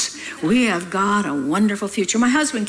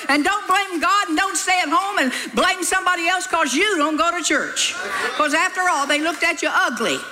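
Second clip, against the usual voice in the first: laughing scold; 6 semitones higher than usual. Real, not acted.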